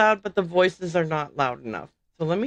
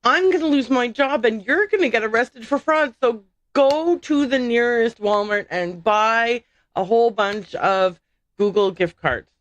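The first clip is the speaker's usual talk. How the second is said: higher, fast-talking scam caller; mock panicked scammer; 4 semitones higher than usual. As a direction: play a frantic fake clerk. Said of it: "you're gonna say to me".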